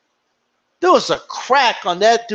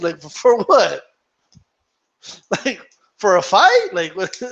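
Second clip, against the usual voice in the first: Miguel Cotto. Retold or imitated. Retelling a boxer scoffing at dying in the ring, chuckling disbelief. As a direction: break into chuckles as if the idea is absurd. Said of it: "Miguel Cotto starts laughing".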